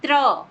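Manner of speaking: त्र said loud and clearly, t and r joined in one cluster; teacher modelling त्र aloud for students; clear demo sound. Shown as a demonstration. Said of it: "उच्चारण करिए".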